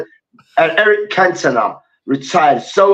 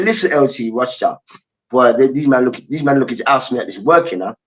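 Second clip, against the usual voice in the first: pleading coach voice; 4 semitones lower than usual. Retold or imitated. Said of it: "I said".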